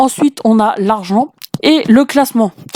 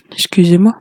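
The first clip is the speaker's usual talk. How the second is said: whispered apology; 3 semitones lower than usual. Real, not acted. Quick apology aside while playing.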